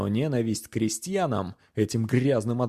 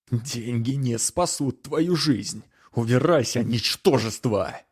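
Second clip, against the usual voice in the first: angry threat; slower than usual. Acted. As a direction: snarl the threat, then bark. Knight threatens peasant. (грозно, с нарастающим криком)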